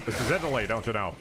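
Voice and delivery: put-on a light joking Italian accent; lightly put-on Italian accent, like a discount comic; a hint of an Italian accent, hammed up; mock Italian accent. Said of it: "talking like Discount John Mulaney in Italy".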